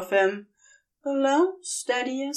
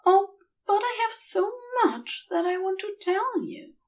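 hurried; 12 semitones higher than usual. A narrator's reading. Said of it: "Aziraphale says hurriedly".

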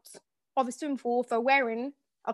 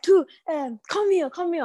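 security guard voice; 6 semitones higher, 3 dB louder than usual. Retold or imitated. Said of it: "they're like".

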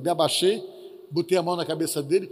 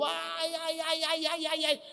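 high, soft retold cries of pain; high soft ai ai ai of a man in pain; mock pained moaning; 7 semitones higher, 6 dB quieter, slower than usual. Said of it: "berrando, gritando".

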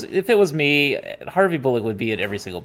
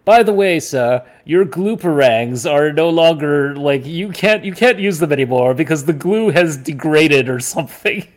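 Alfred impression; 5 semitones higher, 5 dB louder than usual. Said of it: "where Alfred says to him".

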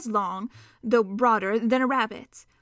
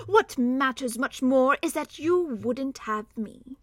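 cheery contempt; 3 semitones higher, slower than usual. Acted. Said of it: "cheerily but contemptuously".

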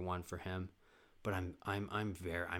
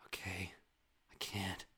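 soft, whispered mock anguish; TV drama hush; 6 dB quieter than usual. TV character unable to go on, hushed intensity. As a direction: whisper with big dramatic pauses. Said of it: "this is how they talk".

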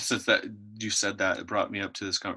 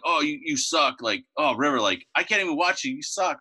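high-pitched retold ribbing; exasperated heckling; 6 semitones higher, 4 dB louder than usual. Dad replaying how he ribbed his son, exasperated heckling. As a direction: replay the sideline jeering, pitched up.

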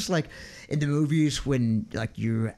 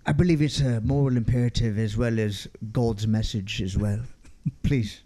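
lofty put-on English accent; mock English accent; 4 semitones lower than usual. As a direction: play the pious Englishman, accent and all. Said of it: "I'm doing the English accent".

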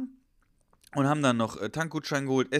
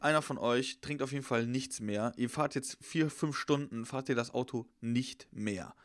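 stern police warning; 4 dB quieter, slower than usual. Retold or imitated. Officer laying down the rules.

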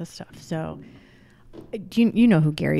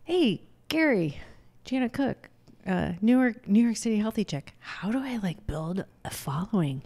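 eager fan voice; 4 semitones higher than usual. Retold or imitated. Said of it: "and I'm like".

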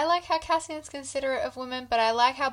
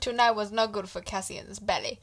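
mock sad; 3 dB louder than usual. Mock mourning Cassian's belly.

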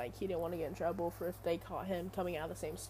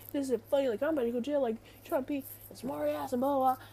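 mock confrontational, pitched up; retold angry outburst, higher than usual talk; imitated aggressive rant; 5 semitones higher, faster than usual. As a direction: mimic someone squaring up and complaining. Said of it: "this kid was getting really aggressive".

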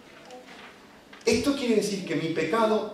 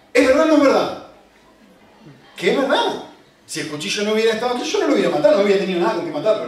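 mocking excuse; 3 semitones higher, 5 dB louder, faster than usual.

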